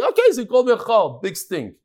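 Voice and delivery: mock "who cares" retort; acted unbothered dismissal. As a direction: brush off the insult as no big deal. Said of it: "Maybe that's why he's quiet".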